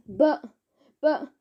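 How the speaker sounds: halting stammered buts; stutter, lost for words. Acted. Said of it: "stuttered Mister Gum".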